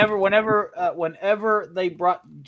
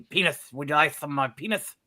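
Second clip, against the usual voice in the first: lightly voiced, slightly fast cartoon character; a hint of a silly mumbled offer; Puff voice; 4 semitones lower, 3 dB quieter, faster than usual. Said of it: "that's how Puff talks on Snow Dub".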